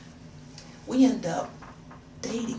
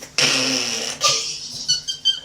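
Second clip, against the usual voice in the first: laugh; 7 semitones lower, 5 dB louder than usual. Real, not acted. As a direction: burst out laughing. Laughs before telling her secret.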